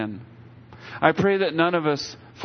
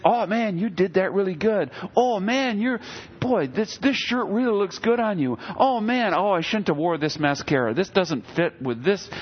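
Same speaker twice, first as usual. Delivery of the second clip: flattering inner voice; 3 semitones higher than usual. Retold or imitated. The enemy's ego thoughts whispering praise, lightly gushing.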